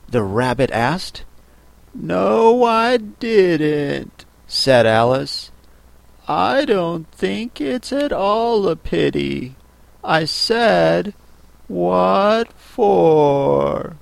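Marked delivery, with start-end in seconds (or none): 1.9-4.2 put-on high, drawn-out child heroine; Alice, contradicting. 6.3-14.0 put-on high, drawn-out child heroine; Alice, matter-of-fact.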